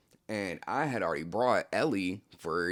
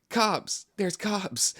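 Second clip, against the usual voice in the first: much higher, louder yell of warning; alarm shout; 12 semitones higher, 4 dB louder, much slower than usual. Retold or imitated. Someone bursting in to warn the party, panicked yell.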